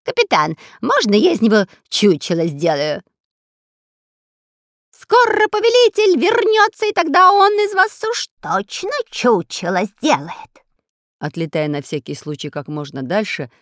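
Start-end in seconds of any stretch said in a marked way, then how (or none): 0.0-3.0 loud, eager robber voice. Acted. Spy asking captain to stuff the parrot. 4.9-10.5 shrieking parrot. Acted. Parrot screeching at escaping prisoners. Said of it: "пробурчал попугай".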